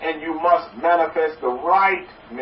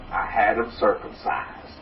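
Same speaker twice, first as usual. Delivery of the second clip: much lower, softer proud delivery; proud Texan punchline again; 8 semitones lower, 6 dB quieter than usual. Retold or imitated. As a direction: sink low and savor it. Repeats punchline in father voice.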